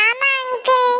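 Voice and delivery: put-on a lost kid answering the grown-up; little girl voice. Lost girl tells the uncle her friends are gone, childlike voice.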